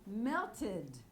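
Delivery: "Melted" as two syllables, melt-id; added syllable. Shown as a demonstration. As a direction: sound the -ed of "Melted" as id. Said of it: "so we add a syllable".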